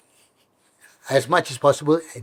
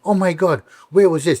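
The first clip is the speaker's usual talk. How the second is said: surprised delight; 5 semitones higher than usual. Retold or imitated. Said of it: "I was like".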